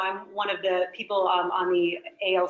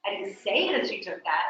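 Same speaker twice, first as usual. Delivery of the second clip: "say" stressed, falling. Shown as a demonstration. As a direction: punch the word "say". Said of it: "by the word I'm emphasizing".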